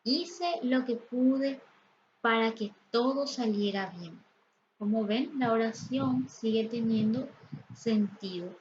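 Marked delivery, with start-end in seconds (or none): 0.0-4.2 slow start on "Hice lo que pude"; slow example sentence. Shown as a demonstration. Teacher slowly reads a grammar example aloud. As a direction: read the example deliberately.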